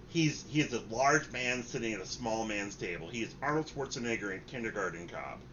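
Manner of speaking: normal talking voice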